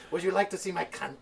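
high, loud, giggling question; laughing quote. Retold or imitated. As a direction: ask it through laughter, playfully. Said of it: "She's going".

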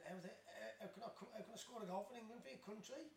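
giggling at the absurdity of it; laughing disbelief. Retold or imitated. Retelling his thoughts after scoring, laughing in disbelief.

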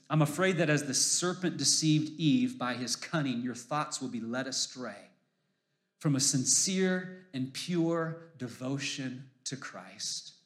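slow, measured Bible reading; solemn reading of Paul; scripture reading. Acted. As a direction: read the verse with weight. Reads scripture aloud.

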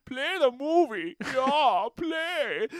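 high, loud, hammed-up menu voice; mock announcer. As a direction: shout it like a cartoon menu. Imitating DVD menu excitedly.

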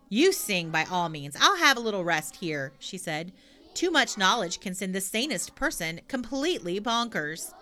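put-on loud, bold little girl; cheeky girl voice. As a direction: blurt it out brashly. Pippi declines to sing.

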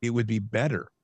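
"better" given deliberate emphasis; scripture reading weighted on "better"; stress on better. Real, not acted. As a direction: lean on the word "better". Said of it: "I wanna stress that word".

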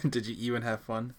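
quoting the line again through a laugh; laughing repeat. Shown as a demonstration. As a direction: laugh as you echo it. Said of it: "that should be the name of the episode".

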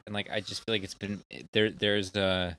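tipsy, loose rambling speech. Real, not acted. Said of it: "I'm getting pretty ru-, pretty drunk".

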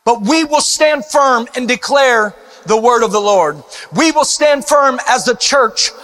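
fervent rallying preacher; rally the church to battle; rally speech. Acted.

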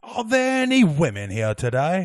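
Monty Python question in English; lightly put-on English accent; a hint of Monty Python English. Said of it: "Monty Python fun size today".

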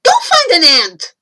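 loud, high, quick order; bossy boy. A narrator's reading. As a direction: snap out a loud command. Boy snaps back at creature.

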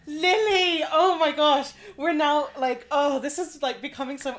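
high, loud and overwhelmed; gush, half laughing, half crying; emotional. Real, not acted.

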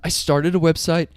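calm then a sudden high yell; hammed-up breakdown shout; mock outburst. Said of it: "I love how he's like".

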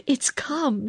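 high-pitched, thrilled announcement; excited cry. A narrator's reading. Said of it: "she cried".

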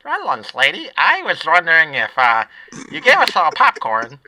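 lightly voiced kid asking; a hint of eager kid; Little Squeezer voice. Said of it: "I should just do both voices".

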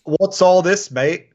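light mock English accent; quick cockney-ish "mate". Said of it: "I can do an English accent".

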